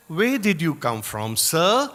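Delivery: gentle sing-song question, lifting on "sir". Retold or imitated. Swami questioning a boy, in a sing-song tone. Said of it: "in that beautiful sing-song tone of his".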